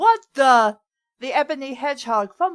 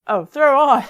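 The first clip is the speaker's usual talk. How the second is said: realizing; 2 semitones higher, 8 dB louder than usual. Real, not acted. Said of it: "I misread that".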